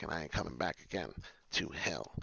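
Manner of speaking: hushed, breathless whisper at the end; whispered vow. Real, not acted. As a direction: drop to a whisper, as a promise to yourself. Vowing never to return to hell.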